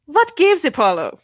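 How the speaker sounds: dramatic game voice. Acted. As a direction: deliver it like a fired-up attorney. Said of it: "Let's see that voice training go to work".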